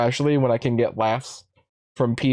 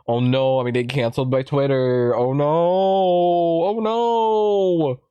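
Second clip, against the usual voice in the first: mock panic. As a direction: wail it like a fake victim of Twitter. Mocking someone afraid of cancellation.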